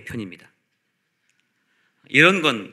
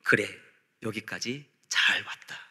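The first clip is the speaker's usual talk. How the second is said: soft, low voice of comfort; quiet, unhurried welcome; gentle reassurance; 4 semitones lower, 6 dB quieter than usual. Retold or imitated. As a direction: let it settle tenderly, phrase by phrase. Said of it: "한 소리를 들어야 합니다".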